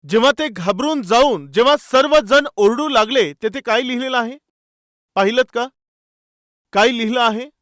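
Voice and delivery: normal talking voice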